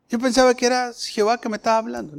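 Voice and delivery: flustered rush. Acted. Saul explaining his mistake to the Lord, fast flustered. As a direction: blurt it out confused. Preacher voicing Saul's confusion.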